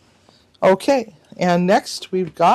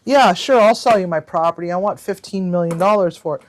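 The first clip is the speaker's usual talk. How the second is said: mock agreeable; 4 dB louder, faster than usual. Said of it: "I was messing with one".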